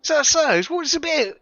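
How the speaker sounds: high, parroting mock Australian; Australian accent. Player mimicking the game character's questions, mock Australian accent. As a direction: echo it in a bad Australian accent. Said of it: "it's not a very good Australian accent".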